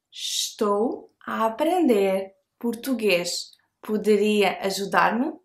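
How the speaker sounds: Estou a aprender português said slowly and carefully; teacher models Estou a aprender português, slowed down; slow model phrase. Shown as a demonstration. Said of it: "invite them to help you".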